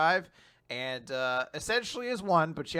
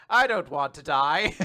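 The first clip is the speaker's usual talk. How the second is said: laughing mock robot plea; 5 dB louder than usual. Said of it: "the robot that's about to explode is like".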